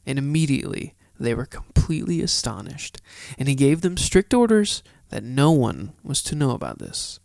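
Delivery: emphatic Bible narration, slowing into spaced-out closing words; scripture reading. A narrator's reading. Host finishes the chapter for listeners, emphatic scripture reading. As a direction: read it out firmly, pausing between phrases.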